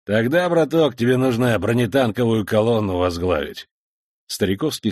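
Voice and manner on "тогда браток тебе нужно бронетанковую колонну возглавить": loud joking remark. Acted. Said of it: "громко сказал из строя".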